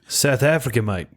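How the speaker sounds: put-on a light stab at a South African accent that slides toward Australian. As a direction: say it like a South African mate, only half committed. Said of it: "that's a little bit Australian".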